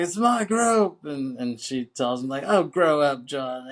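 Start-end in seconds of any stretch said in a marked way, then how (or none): 0.0-1.0 high, drawn-out mock yell; hammed-up protest, stretched and high; acted protest. Acted quarrel between John and aunt. 2.5-3.7 loud, higher-pitched retort; hammed-up exasperated scolding; mock scolding. Acted quarrel, aunt scolds John.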